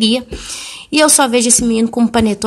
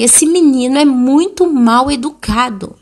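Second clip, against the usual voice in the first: losing patience; 5 semitones higher, 4 dB louder than usual. Retold or imitated. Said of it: "eu perdi um pouco a paciência".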